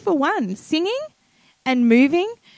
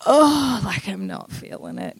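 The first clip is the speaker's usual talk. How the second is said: reluctant; 3 dB quieter than usual. Shown as a demonstration. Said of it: "you're like".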